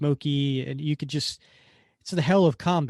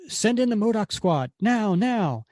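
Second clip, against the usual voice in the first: higher, louder urgent command; villain shouting for the squad, higher and louder; barked order; 8 semitones higher, 5 dB louder than usual. Retold or imitated. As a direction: yell for backup.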